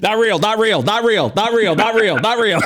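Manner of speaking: high, loud laughing "not real"; cracking up in disbelief; giggling it over and over. Real, not acted.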